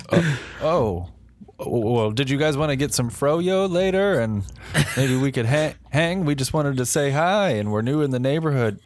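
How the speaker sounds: high, hesitant, trying too hard; nervous eager alien voice. Pretend. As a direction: play the awkward new kid in town. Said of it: "I'm gonna be like".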